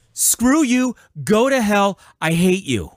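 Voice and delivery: angry curse. Real, not acted. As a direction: spit the curse out again. Angry rant, repeating his curse.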